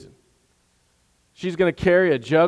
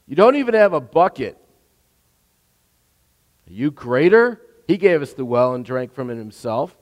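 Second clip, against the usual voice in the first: cynical, mocking challenge; taunting; 4 dB louder than usual. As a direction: toss the words back at him with scorn. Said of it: "She is taunting him".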